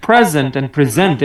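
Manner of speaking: first প্রেজেন্ট stressed on PRE, second on ZENT; contrasting stress. Shown as a demonstration. Teacher asking if he differentiated them, contrasting stresses. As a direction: flip the stress from front to back across প্রেজেন্ট and প্রেজেন্ট. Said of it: "এভাবে differentiate করে".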